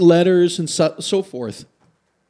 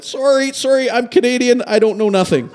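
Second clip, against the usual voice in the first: higher-pitched acted apology; mock-helpless, higher plea; pleading apology; 5 semitones higher than usual. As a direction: apologise hastily in a raised pitch. Acted apology to yelling man.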